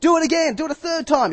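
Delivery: high loud order; commanding. Acted. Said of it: "he says".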